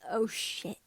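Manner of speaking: ordinary delivery, nothing marked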